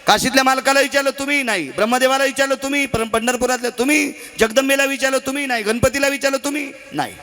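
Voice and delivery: high and fast, firing the question at each god; the journalist going door to door asking; quick questioning. Acted.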